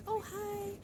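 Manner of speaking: dog's greeting. Retold or imitated. Voicing the friendly dog.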